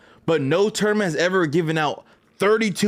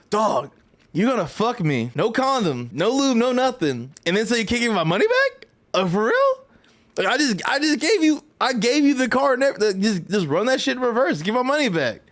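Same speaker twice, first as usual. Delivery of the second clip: exasperated rant; 6 semitones higher than usual. Retold or imitated. Ranting at the airline counter agent.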